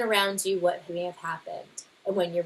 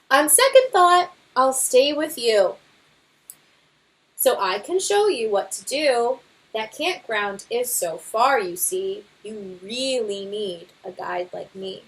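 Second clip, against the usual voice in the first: louder, blustering know-it-all father bear; boastful Papa Bear; 4 dB louder than usual. Acted. Father bear brushing off the scouts' guidebook, boastful. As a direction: scoff at the book with bravado.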